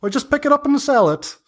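put-on high squeaky old hag calling down from the trees; high-pitched busy hag. Hag answers.

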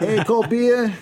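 high loud ballpark beer call; stadium vendor hawking. Shown as a demonstration. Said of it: "Let me hear your best beer here".

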